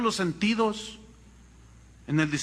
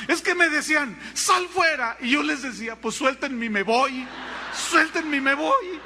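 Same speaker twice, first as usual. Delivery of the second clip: put-on girl retelling; 6 semitones higher than usual. Girl's voice.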